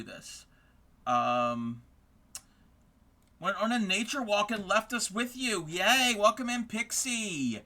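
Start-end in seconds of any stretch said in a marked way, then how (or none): 5.7-7.6 high, bright cheer, then a slow welcome; cheerful greeting. Real, not acted. Streamer cheering a viewer named Pixie in, excited. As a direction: celebrate them arriving.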